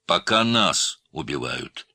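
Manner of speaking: anger rising through slow words; angry. A narrator's reading. Adalyat snapping back at the officer, slow and angry. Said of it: "разозлился Адалят".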